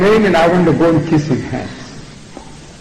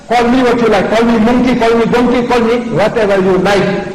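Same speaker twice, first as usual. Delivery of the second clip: raised-pitch, insistent dare; defiant challenge; 4 semitones higher than usual. Acted. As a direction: fire off an indignant challenge. Acts out a man defending his mother.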